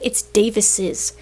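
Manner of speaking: Davis's said slowly, extra syllable at end. Shown as a demonstration. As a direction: spell out Davis's clearly. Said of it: "like, the name Davis or something".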